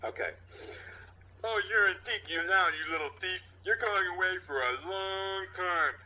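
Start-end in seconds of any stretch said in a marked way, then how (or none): 1.4-5.9 high, pushy cop accusation; tough cop voice. Acted. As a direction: bark it like a hard-nosed cop. Cop accusing kid, read aloud.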